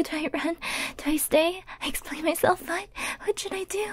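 fretting to yourself in a quiet, breathless fluster; panicked. Acted. Stalker caught staring, has to hide quickly, panicked. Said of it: "if I'm panicking".

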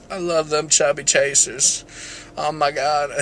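put-on light New York accent, drawn-out words; a touch of mock New York accent. Vlogger replaying a president's line, slight New York accent. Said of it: "I got the New York accent thing".

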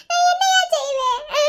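rising, crying plea; tearful wail. Acted. Mother crying to her husband about their unmarried daughter. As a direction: break into tears on the question.

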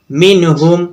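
short syllables in মিনহুম; quick, unstretched. Shown as a demonstration. Teacher shows students a word read promptly, মিনহুম unstretched. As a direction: say মিনহুম briskly, no held vowels. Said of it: "ঝটপট পড়বো".

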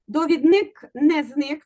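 "Довідник" slow, stress on "ві"; correcting the class, stressing доВІдник; slow stress demo. Shown as a demonstration. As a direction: drag out "доВІдник" clearly. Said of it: "У нас була підказка".

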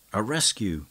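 loud rallying cry. Acted. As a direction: call out in alarm. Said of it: "cried Mascari".

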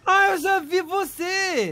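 high, drawn-out realization; sudden recognition. Acted. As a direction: stretch it out as it dawns on you. Recognizes the kitten.

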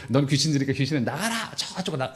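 chuckling exorcist shooing a demon; 웃으며 귀신 쫓듯; laughing mock exorcism. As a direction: laugh through a fake exorcism. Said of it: "뭐 이런 뜻이 아니라".

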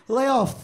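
LAYOFF with a lisped, hissy th trailing off the end. Pretend. Comic answering evasively about layoffs, lisped ending. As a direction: blur the end of LAYOFF into a lisp. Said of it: "I wish that I had a lisp".

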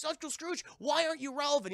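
put-on high-pitched boy's question; nosy nephew. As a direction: ask pointedly in a high kid voice. Boy pointedly questions his uncle.

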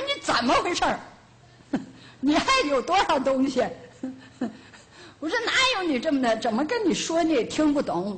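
sharp, half-laughing scolding of her husband; retold scolding. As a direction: scold him, exasperated but laughing through it. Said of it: "给我老伴儿好一顿训斥". (半笑着训斥老伴儿)

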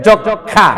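"যক্ষা" with a doubled kh sound and silent m; kkh, silent মফলা. Shown as a demonstration. Teacher shows pupils the resulting sound, যক্ষা as jokkha. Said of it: "আমাদের সে অনুযায়ী উচ্চারণ হয়েছে".

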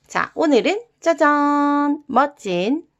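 put-on bright, loud sign-off to children; kids' show outro. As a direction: cheer the kids goodbye like a TV host. Upbeat kids-channel outro. (아이들에게 신나게 외치는 마무리 인사)

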